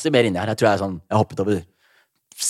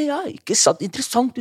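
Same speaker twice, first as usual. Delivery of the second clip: mock fascinated; 13 semitones higher than usual. Feigning interest at the gig briefing.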